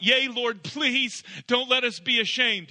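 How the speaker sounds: a whiny plea he did not mean; mock plea. Shown as a demonstration. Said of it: "What he's saying to God is not".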